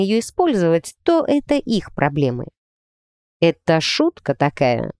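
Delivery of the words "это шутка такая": slow, lower, gloomy question; mildly grim, drawn-out disbelief. A narrator's reading. Sullen player questions the coach about a joke, gloomily. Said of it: "мрачно уточнил зануда у тренера".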